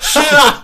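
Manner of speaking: Shall, high, loud, drawn out; Shall stressed. Retold or imitated. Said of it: "Я ему написал".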